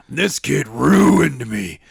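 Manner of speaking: slow, strained put-on voice; Daniels ruined voice. Daniels blaming Skylar, slow and strained. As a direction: drag it out like a broken man. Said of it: "He's like".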